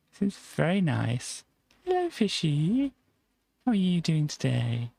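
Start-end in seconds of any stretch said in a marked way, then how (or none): 1.8-4.9 sweet high hello to an aquarium fish; cooing at fish. Acted. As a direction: coo to the fish like a pet.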